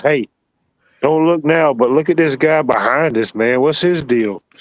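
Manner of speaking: play-acted brash, slow, drawn-out yelling. Imagining another speaker loudly calling out in a grocery store: imitating someone yelling out. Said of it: "just to yell out".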